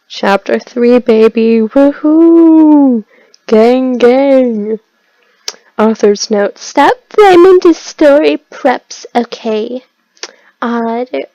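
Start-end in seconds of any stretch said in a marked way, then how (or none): 0.1-4.8 excited cheer. Real, not acted. Celebrating reaching chapter three. 6.6-9.8 mock outburst. Reading author's note mockingly.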